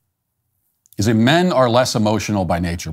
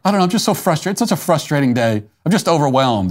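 higher-pitched mock whine of a tearful man; lightly hammed-up overwhelmed complaint, pitched up; 5 semitones higher than usual. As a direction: imitate a man on the verge of tears, half-hearted. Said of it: "imagine a man breaking down in tears".

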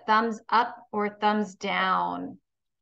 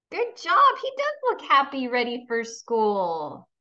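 cheerful praise; 2 semitones higher than usual. Acted. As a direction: bounce up to cheer the class. Praising pupils' answers.

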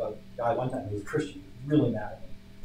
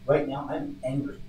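measured anger; 4 semitones higher, 4 dB louder, slower than usual. Retold or imitated. Re-enacting his slow answer to caller.

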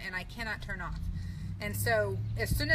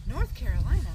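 startled, loud North Carolina?; surprised double take; 5 dB louder than usual. Retold or imitated. Driver spotting the wrong state sign, surprised. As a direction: realize you crossed the wrong state line. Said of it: "and I said".

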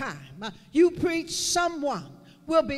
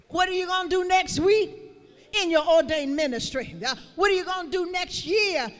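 rising sermon cadence, faster toward the end; building preacher's charge; 3 dB louder than usual. Acted. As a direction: drive the questions home from the pulpit, building.

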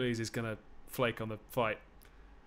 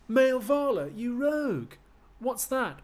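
much higher, loud shrieking indignation; outraged Patroclus; 12 semitones higher, 10 dB louder, slower than usual. Acted. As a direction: squeal it in offended disbelief.

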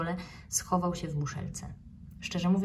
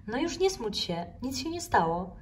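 comforting; 5 semitones higher than usual. Acted. Counsellor comforting the snail.

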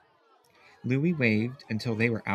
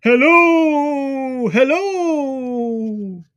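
high, much louder calling hello; eager loud hello; 14 semitones higher, 10 dB louder, much slower than usual. A narrator's reading. Louis calling out to the puppet Gussie, loud and eager. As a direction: call out to the puppet, thrilled.

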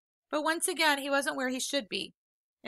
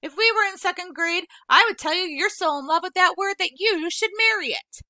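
playful teasing; 8 semitones higher, 9 dB louder than usual. Acted. Vola teasing like a schoolkid.

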